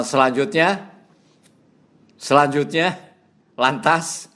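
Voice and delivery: halting, repeating "setelah itu" with rising ends; mimicking a repetitive speaker. Shown as a demonstration. Lecturer demonstrates a monotonous preacher, halting mock repetition. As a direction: show a preacher stuck on the same connector. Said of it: "atau dengan kata".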